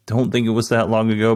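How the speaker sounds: normal talking voice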